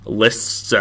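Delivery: tired, slurred speech; words blurred by too much saliva; slurring words. Real, not acted. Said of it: "I'm slurring my words 'cause I'm tired".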